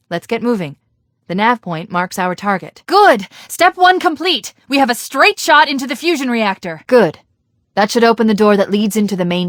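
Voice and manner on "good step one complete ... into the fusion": high, slowed triumphant exclamation; bright, high burst of triumph; excited cheer. Acted. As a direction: celebrate the small win. Cheering success mid-mission.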